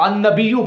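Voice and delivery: "النبیو" ending in -yu; imitated correction. Quoting the opponent's demanded reading, imitated correction. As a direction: say "النبیو" as an-nabiyyu. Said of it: "اب یہ بندہ کہتا ہے".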